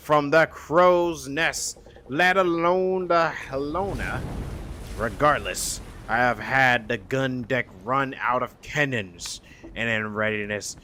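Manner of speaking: slow, weary sea captain voice; a hint of a grizzled pirate captain. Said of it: "I should give this a pirate voice".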